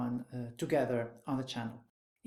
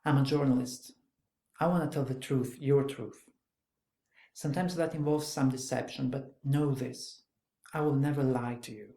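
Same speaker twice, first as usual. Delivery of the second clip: firm, louder journalist's pitch; dry and direct; 4 dB louder than usual. Acted. Journalist pressing a wary girl to trust him, dry and direct. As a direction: state it plainly and drive each point home. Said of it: "dry, quite quick, quite direct".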